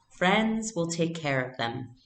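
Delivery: gentle and slow, a mother soothing; mother gently reassuring her daughter. Acted. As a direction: ease her worry slowly. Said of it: "Mama said gently".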